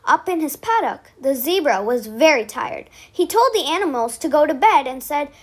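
put-on lively storybook voice for kids; bedtime story reading. A narrator's reading. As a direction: read it out to little ones at bedtime.

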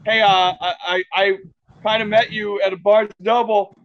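retold awkward fan confession; sheepish apology. Retold nervous apology to celebrity.

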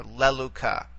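leluca, stressed on the first syllable "le"; stress on antepenult. Shown as a demonstration. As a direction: put the accent on "le" in "leluca". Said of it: "bring it all the way back to the antepenult".

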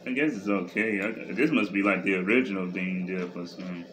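chewing chips while speaking; talking while chewing. Real, not acted. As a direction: mouth partly full of food. Seen 0: Woman chews chips throughout; unclear whether she or the man speaks.

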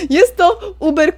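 Jest to uber, high, loud and slow; stress on uber. Real, not acted. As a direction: stretch and punch the word uber. Repeats with emphasis.

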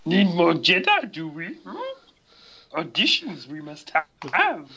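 croaky little sage with swooping pitch; Yoda. Acted. Yoda calling for Jedi auditions, creature voice. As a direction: let the pitch leap on inverted phrases. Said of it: "it's like the deepest Yoda ever".

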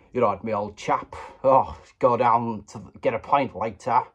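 a hint of a posh British gent, half-hearted; mock posh Englishman inviting a mate to the pub; mock British toff. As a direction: lightly play an old chap heading for a pint. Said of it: "Don't know what that was".

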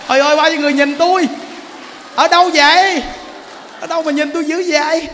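loud, high cry of amazement; hammed-up astonished shout; mock astonishment. Feigns amazement at crowd staring.

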